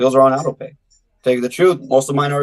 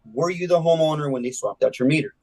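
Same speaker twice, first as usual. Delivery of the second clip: calm and easy; 2 semitones higher, 4 dB quieter than usual. Shown as a demonstration. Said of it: "And hear how I say that".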